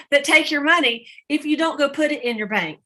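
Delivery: laughing through the punchline; amused, laughing delivery. Real, not acted. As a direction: let the laugh spill into the words. Retelling a funny founder quote.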